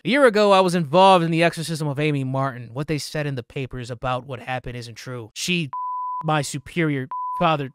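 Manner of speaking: performed letter reading. Acted. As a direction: read the letter out, winding down gently. Reads in-game letter aloud.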